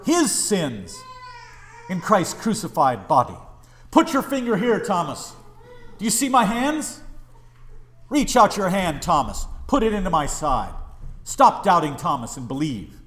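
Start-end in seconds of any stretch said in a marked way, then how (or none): 3.9-13.0 lightly acted, emphatic commands; Jesus urging Thomas. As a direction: press a doubter to believe, firmly. Acting Jesus commanding doubting Thomas.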